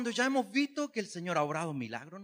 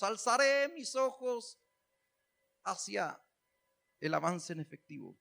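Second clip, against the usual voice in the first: mock-solemn recitation. Preacher reworking a psalm for people in debt, mock-solemn. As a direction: recite grandly, with pauses, tongue in cheek. Parody psalm about cash advance.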